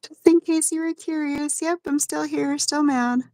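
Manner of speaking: high, petulant grumble; grumpy back voice. Pretend. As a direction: sulk like a sore back. Continues back's voice.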